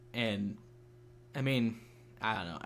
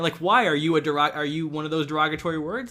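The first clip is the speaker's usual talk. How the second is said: imitating a troll's loud challenge; mock taunting; 3 semitones higher, 6 dB louder than usual. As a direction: throw it back as a mocking question. Voices troll challenging an objector.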